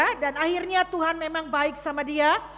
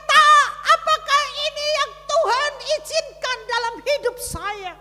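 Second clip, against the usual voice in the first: retold weeping; 9 semitones higher, 5 dB louder than usual. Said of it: "dia menangis kepada saya".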